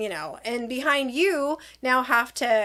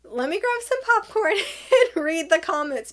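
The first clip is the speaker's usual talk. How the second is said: amused gossip-watcher; 4 semitones higher than usual. Retold or imitated. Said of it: "And I'm just like".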